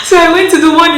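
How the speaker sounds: high, loud and animated; hyped-up retelling. Retold or imitated. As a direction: act it out big and excited. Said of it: "That's how I would have gone".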